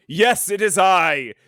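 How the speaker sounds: slow, booming alien villain; grand menacing alien speech; villainous alien voice. Retold or imitated. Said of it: "he talks like a villainous alien".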